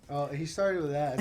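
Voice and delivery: ordinary talk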